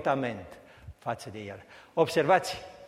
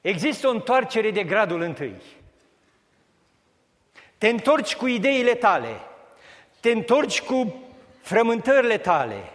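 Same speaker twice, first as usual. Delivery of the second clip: loud, higher, driving sermon voice; fervent preaching; 5 semitones higher, 4 dB louder than usual. Acted. Preacher rousing the congregation, at full force. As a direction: preach it, rising with each te întorci.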